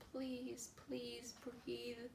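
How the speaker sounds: hushed, desperate inner plea; a near-silent begging thought; whispered plea. A narrator's reading. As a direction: beg silently from inside. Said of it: "thought Edward".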